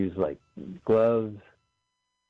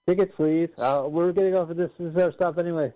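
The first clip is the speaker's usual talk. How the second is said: conductor voice; 9 semitones higher than usual. Pretend. Playing conductor at bail time.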